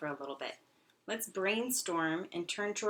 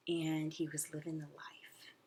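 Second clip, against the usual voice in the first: whisper; 3 semitones lower, 6 dB quieter than usual. Acted. Teacher hushes a story detail.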